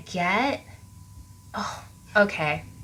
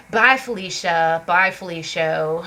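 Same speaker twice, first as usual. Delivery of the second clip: slow, drawn-out brush-off; arrogant dismissal; 3 semitones lower than usual. Acted. Reader voicing someone walking away from an argument, arrogant. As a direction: dismiss them with lazy arrogance. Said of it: "an arrogant kind of energy".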